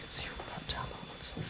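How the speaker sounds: soft aside whispered to a colleague; hushed whispered aside. Real, not acted. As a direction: whisper it so the room won't hear. Side remark during presentation.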